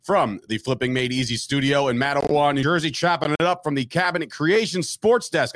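rapid-fire intro without pausing; all in one breath. Shown as a demonstration. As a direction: rattle it off in a single breath. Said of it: "I can say that all in one breath".

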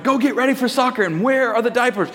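frantic. Retold or imitated. Dad rushing daughter to soccer while searching, acted frantic. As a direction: act out a flustered parent juggling tasks. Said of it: "I'm, like, looking frantically".

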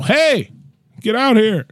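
high-pitched calling out, no real volume; mock yell. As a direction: imitate hollering someone over. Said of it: "when I yell".

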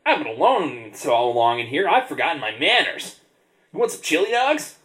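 lightly voiced sea creature; gurgling tentacle alien. Squid speaks, narrator voices it.

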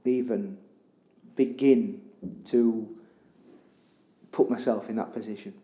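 halting, broken-off words after crying; faltering, tearful admiration; choked up. Real, not acted. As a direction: struggle to get each word out. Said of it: "I've been crying".

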